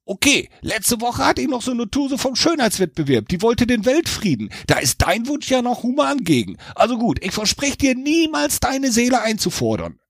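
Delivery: a casual devil musing then promising. A narrator's reading. Devil agreeing to Jack's terms, casual. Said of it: "Der Teufel überlegte".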